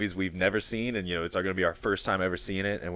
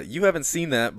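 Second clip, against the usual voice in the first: uptalk; 5 semitones higher than usual. Shown as a demonstration. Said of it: "with that upward inflection".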